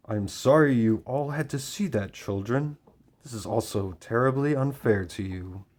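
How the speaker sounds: creepy voice. Retold or imitated. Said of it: "got this creepy voice".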